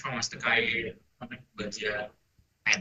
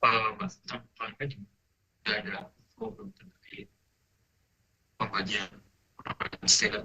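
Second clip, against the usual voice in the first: breaking up space radio. Real, not acted. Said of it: "Suaranya putus-putus".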